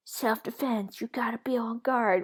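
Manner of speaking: whispered mock self-defense guru; imitating American guys. Mocking American self-defense video hosts in a whisper. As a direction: hiss the advice like a YouTube coach. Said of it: "American guys saying".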